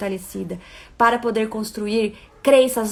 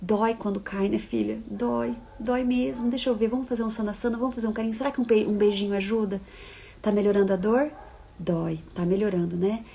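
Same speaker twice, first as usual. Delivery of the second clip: hushed, tender murmur, much softer; soothing mother; 2 semitones lower, 5 dB quieter than usual. Retold or imitated. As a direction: comfort a hurt daughter almost in a whisper. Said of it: "a mamãe acolhe e fala". (mãe sussurrando carinhosamente para a filha machucada)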